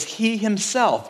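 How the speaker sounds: "himself" stressed high and slow; emphatic stress. Shown as a demonstration. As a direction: lift "he himself" up and draw it out. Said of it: "It's emphatic".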